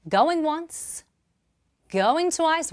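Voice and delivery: high ringing auction call; fish market auctioneer. Real, not acted. Auction countdown to close bidding.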